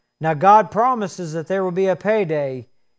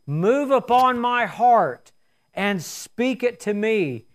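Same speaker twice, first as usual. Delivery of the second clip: prayer; 2 semitones lower than usual. Real, not acted. Leads closing prayer.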